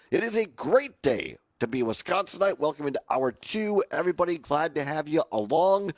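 a bit hoarse and rough; raspy voice. Real, not acted. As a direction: speak through a raspy throat. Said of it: "the voice still a bit raspy".

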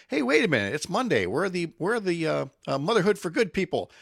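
a hint of a listener hunting for a missing segment; puzzled listener. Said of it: "for folks listening going".

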